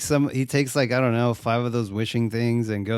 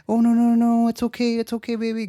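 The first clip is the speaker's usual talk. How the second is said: high, fretful imitation of soothing; hurriedly reassure, pitched well up; mock comforting; 10 semitones higher than usual. Boyfriend comforting his distraught girlfriend, mock soothing.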